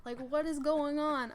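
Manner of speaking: imitating a worried dad begging for an answer; retold insistent pleading. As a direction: keep asking, mildly urgent. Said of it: "he keeps asking".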